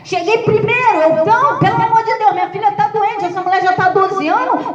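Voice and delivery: a father pleading with Jesus to come first, half-joking; desperate pleading father. Retold or imitated. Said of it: "podia ter começado a gritar e falar". (súplica aflita e exagerada, em tom mais agudo)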